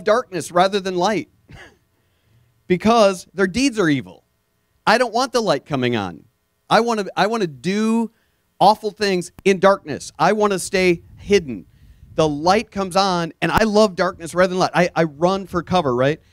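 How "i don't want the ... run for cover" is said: sinner's voice. Retold or imitated. Voicing a sinner who loves darkness.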